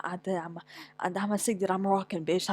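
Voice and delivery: normal talking voice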